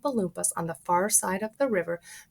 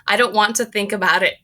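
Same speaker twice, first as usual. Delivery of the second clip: loud upset shriek; 7 dB louder, faster than usual. Acted. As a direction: shriek it away. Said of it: "shrieked Missus Gloop".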